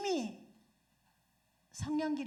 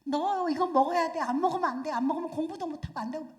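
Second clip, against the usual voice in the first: loud nagging mother, faster at the end; a mother pushing breakfast, raised voice; scolding mother; 3 semitones higher, 6 dB louder than usual. Retold or imitated. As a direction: nag the child to eat. Mother scolding child to eat.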